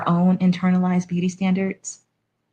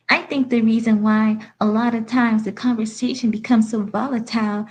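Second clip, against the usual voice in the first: put-on sad victimized accent; 3 semitones higher than usual. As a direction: read it with a hint of whiny victimhood. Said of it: "like a sad, victimized accent ... Very whiny".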